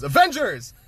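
high, loud rallying call; imitated battle cry. Cap rallying everybody at the front lines, imitated battle cry. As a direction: call out to a whole army. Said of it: "He goes".

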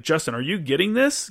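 lightly imitated Italian teacher, rising question; a hint of an Italian professor checking on a student. Italian professor calls out a lost student in class, lightly imitated. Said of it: "that's how she said it".

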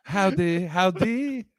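jokey Texas howdy; hammed-up Texas greeting; Texas accent. Co-host joking about the Texan client, mock Texas accent. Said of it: "that's a Texas accent".

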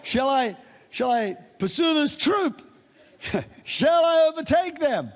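rereading the line high-pitched through laughter; laughing high reread. Real, not acted. Preacher laughs at his own slip while rereading David's question, laughing high.

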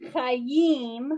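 chayim, throaty ch then a clear yim; Hebrew chayim. Shown as a demonstration. Teacher models chayim for a student. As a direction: say chayim with a guttural ch. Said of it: "like this one".

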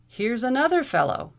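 high, loud sudden exclamation; exclaiming. A narrator's reading. Mordaunt spots another lawman and exclaims. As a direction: blurt it out in alarm. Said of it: "exclaimed Mordaunt".

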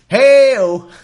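a big, loud, laughing whoop; laughing hey-o shout. Real, not acted. Laughing at his own rod joke, whooping loud and high. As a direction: crow with glee at your own dirty joke.

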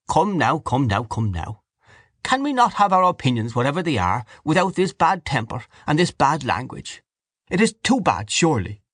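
mild, pained appeal; mild old Uncle Charles. Acted. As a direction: gently plead for calm.

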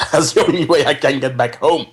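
ordinary delivery

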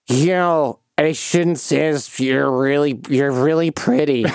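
slow, gassed-up confession to a crush; loopy flirting. Retold or imitated. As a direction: mimic a woozy patient blurting a compliment. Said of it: "are you feeling loopy".

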